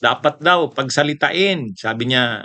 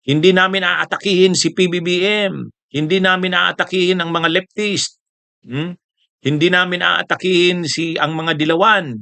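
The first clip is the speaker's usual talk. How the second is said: higher mock pledge; mock promising; 5 semitones higher than usual. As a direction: recite promises in a mocking tone. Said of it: "parang nangangako". (pabirong pangangako)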